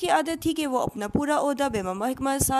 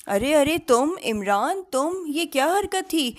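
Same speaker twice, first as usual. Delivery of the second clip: startled; 5 semitones higher than usual. A narrator's reading. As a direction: caught out, half laughing. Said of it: "चौंकते और हंसते हुए कहा".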